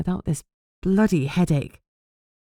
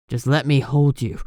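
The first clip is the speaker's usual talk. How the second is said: rough entreaty; 3 semitones lower than usual. Acted. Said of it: "he entreated, voice rough".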